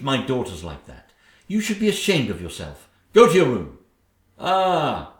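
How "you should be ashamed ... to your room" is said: loud sharp command; stern order. Acted. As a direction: snap the order at her. Stepmother scolds Cinderella.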